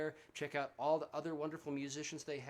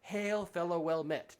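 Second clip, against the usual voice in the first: mock old-time hail, a bit louder; hearty greeting; 3 semitones higher, 5 dB louder than usual. Musician imagining friends reunited after lockdown, hearty mock greeting. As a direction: hail a fellow traveler with light pomp. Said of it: "look each other in the eye and say".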